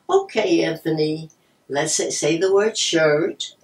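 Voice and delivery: loud, drawn-out word for a pupil; encouraging teacher, stretching the key word; helping teacher. Retold or imitated. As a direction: enunciate slowly and loudly, like coaching a speller. Helping teacher voices spelling word.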